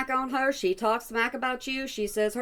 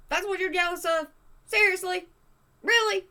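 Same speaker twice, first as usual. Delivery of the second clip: incredulous; 9 semitones higher than usual. Real, not acted. Incredulous at streamer's jealousy.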